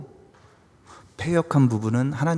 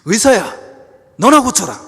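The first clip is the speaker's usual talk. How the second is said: raised, high-pitched jeer; loud taunt; 8 semitones higher, 10 dB louder than usual. Acted. Hometown crowd mocking Jesus, loud taunting voice. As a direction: hurl the proverb as a challenge.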